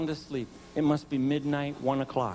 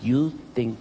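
mock patience; 7 semitones lower, 5 dB quieter than usual. Husband answering his wife, lower, mock-patient and dry. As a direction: humour her with low exaggerated patience.

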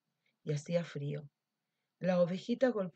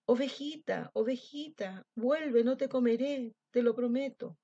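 calling out; 5 semitones higher than usual. Acted.

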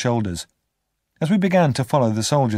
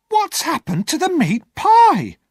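very high, louder, slow shocked woman's cry; alarmed cry; 6 dB louder, slower than usual. Acted. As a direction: cry out at the missing pie. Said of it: "she cried".

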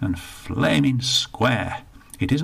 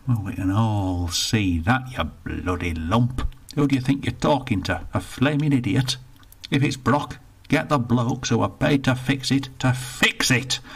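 put-on indignant old northerner, rushed in the middle; grumpy old Bertie; 3 semitones higher than usual. Bertie complains to the attendant, indignant grumble. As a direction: grumble about the lost pound.

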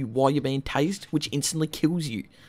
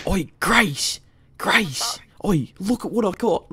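calling out; 4 semitones higher, 4 dB louder, slower than usual. Real, not acted. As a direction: call her name across the street, louder. Calling to a distant friend.

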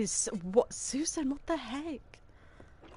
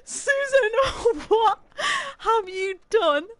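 mock horror; 5 semitones higher, 4 dB louder, slower than usual. Real, not acted. Confronting suspected kidnapper.

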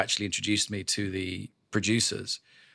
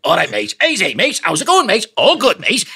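Scouse banter, pitch climbing higher and louder; Scouse skit voice; Scouse accent; 9 semitones higher, 6 dB louder than usual. Retold or imitated. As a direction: Liverpool lads' chatter, getting higher. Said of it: "the Scouse skits from Harry Enfield".

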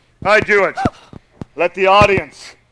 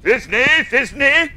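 monstrous little voice. Pretend. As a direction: squeak it like a maiden in love. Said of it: "I will speak in a monstrous little voice".

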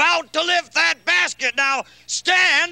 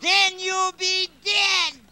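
fake genie voice; 3 semitones higher than usual. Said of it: "Your voice has changed".

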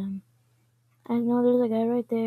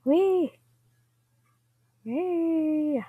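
gleeful squeal; 4 semitones higher than usual. Real, not acted. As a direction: let out a happy cry. Gleeful cheer.

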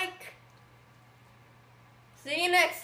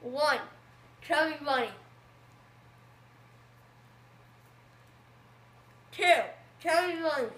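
talking through a mouthful; words mushed by marshmallows; cheeks stuffed full; 2 semitones lower, much faster than usual. Real, not acted. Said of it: "stuff one in your mouth".

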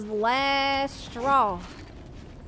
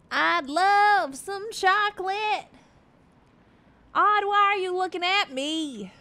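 a hint of a higher, slow cartoon voice; lightly voiced character; 4 semitones higher, slower than usual. Gamer voicing a character who wants chocolate, lightly higher. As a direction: play a fussy cartoon critter.

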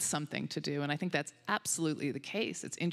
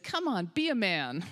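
imitating an owner chiding his dog; mock exhortation to a shy dog; mild admonishing; 2 semitones higher than usual. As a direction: egg the dog on, half-scolding. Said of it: "kind of admonish them".

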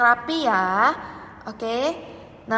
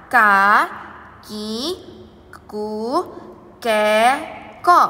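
over enunciating; 6 dB louder, much slower than usual. Shown as a demonstration. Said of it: "kita akan menuliskannya ya".

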